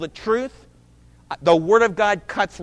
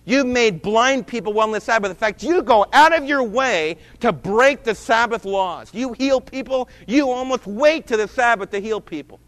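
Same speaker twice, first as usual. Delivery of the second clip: accusing crowd; 3 semitones higher, 4 dB louder than usual. Acted. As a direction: scold him like an angry crowd.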